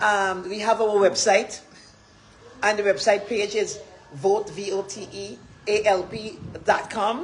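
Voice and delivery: put-on American accent, slow and careful; lightly affected American accent. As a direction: spell it out in careful American English. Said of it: "let me speak some U S language".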